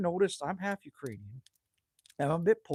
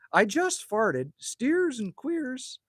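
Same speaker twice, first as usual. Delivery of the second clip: slow drawl; 8 semitones higher, 4 dB louder, much slower than usual. Real, not acted. Joking drawl.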